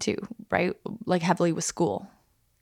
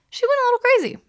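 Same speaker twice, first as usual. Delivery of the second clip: high, animated telling of her wildness; excited; 8 semitones higher, 4 dB louder, much faster than usual. Real, not acted. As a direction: lift it up, amazed and lively. Excited retelling of friend.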